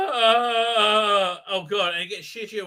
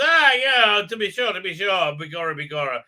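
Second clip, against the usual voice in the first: mocking a cheap Irish accent; 2 semitones higher, 4 dB louder than usual. Lenny Henry's character in a mock stage Irish accent. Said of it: "an Irish accent".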